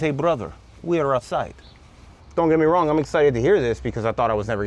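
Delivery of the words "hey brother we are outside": lightly imitated Eastern European accent; mock Eastern European accent on the phone. Seller calling the buyer from outside, light Eastern European accent. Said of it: "In this Eastern European accent".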